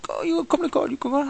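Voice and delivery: high wheedling cop voice; imitated policeman. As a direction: coax him toward court. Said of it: "he's like".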